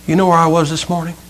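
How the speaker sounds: soft, dejected acorn voice; winded, upset acorn. Acted. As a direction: lightly play a spent little acorn. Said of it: "He's kind of winded. He's looking a little upset".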